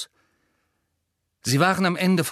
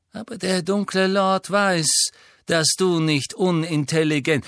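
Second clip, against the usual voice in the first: Malfoy voice; 6 semitones higher, 3 dB louder than usual. Acted. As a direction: praise him with cold condescension. Malfoy taunts slowly.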